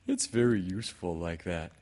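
earnest bear explaining; mildly eager storybook voice. Acted. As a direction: say it sincerely, in character. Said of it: "said Pooh earnestly".

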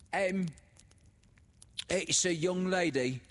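high, loud, fawning announcement; little creature. A narrator's reading. The little woman announcing Laura to the grieving widow, fawning. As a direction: announce her, falsely sweet. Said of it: "said the little creature".

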